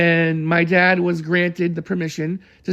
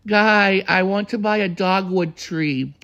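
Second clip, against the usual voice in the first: slow soft-spoken Alice; slower than usual. Retold or imitated. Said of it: "She was very slow when she talked, but very soft-spoken".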